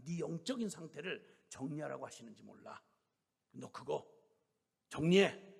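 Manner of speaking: put-on stern, resolute scolding of a young woman; firm rebuke. 권사님 scolding the sister to let go, firm. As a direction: lay it down firmly, like an elder. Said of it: "아주 단호하게 얘기를 한 거죠".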